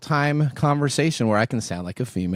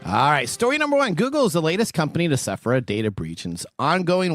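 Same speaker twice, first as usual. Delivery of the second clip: punchy, lively headline delivery; news anchor read; 4 semitones higher than usual. Acted. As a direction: present the tech news like an anchor.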